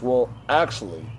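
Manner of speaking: lightly imitated confident corrector; mock know-it-all. People who sound super confident correcting you, mocking pedantic tone. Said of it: "you talk like this".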